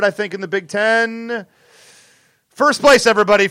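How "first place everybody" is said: triumphant. Real, not acted. Triumphant announcement.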